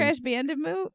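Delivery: Bandicoot said as "bandamoo", questioning; hesitant "bandamoo" for Bandicoot; mispronounced Bandicoot. Real, not acted. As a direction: swap the "coot" of Bandicoot for "moo". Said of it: "Katie doesn't know how to say".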